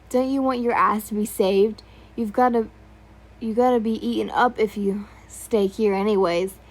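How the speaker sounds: shout. Acted. Soldier shouting at the scared girl to leave. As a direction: yell it right in her face. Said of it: "he shouted in front of your face".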